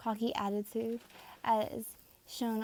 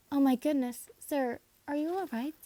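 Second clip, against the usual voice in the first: higher, louder startled concern; alarmed; 5 semitones higher, 6 dB louder than usual. Acted. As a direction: gasp out in worried surprise. Finds hurt werewolf in forest.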